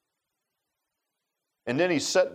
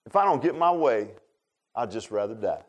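put-on sulky kid; 6 semitones lower than usual. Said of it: "sound just like a little kid".

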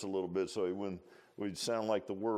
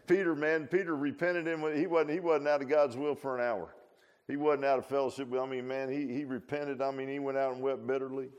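higher, louder preaching push; fervent preaching; 5 semitones higher, 4 dB louder than usual. Real, not acted. Preacher insisting to congregation, higher and louder. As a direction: drive the point home.

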